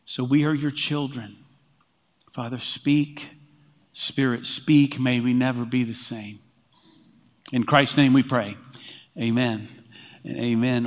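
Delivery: pastor praying before the message, hushed and earnest; prayer. Acted. Opening prayer before the sermon.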